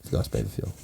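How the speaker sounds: deep breathy whisper; low whisper. Real, not acted. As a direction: drop low and hush it. Repeats the punchline.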